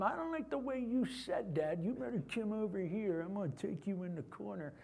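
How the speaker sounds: tough menacing threat; vigilante voice. Acted. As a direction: lean in like a street enforcer. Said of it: "That's my vigilante voice".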